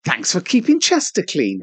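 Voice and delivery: lightly voiced bin announcement; talking bin voice. Man offers to voice Chester's bins, talking bin voice. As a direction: mimic an automated public thank-you. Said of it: "I can do the voice for them".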